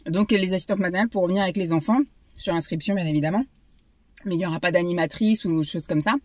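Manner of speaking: parle en mâchant sa barre; mâchonner en parlant; bouche pleine. Real, not acted. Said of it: "Je parle la bouche pleine". (voix de quelqu'un qui mange)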